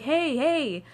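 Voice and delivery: high calls of hey; calling out. Retold or imitated. Banging on the bus door, calling out high. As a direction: call out to the driver through the door.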